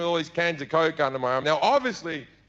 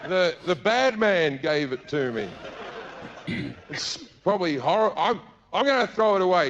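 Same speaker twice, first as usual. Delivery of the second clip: innocent act. Retold or imitated. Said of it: "so I went".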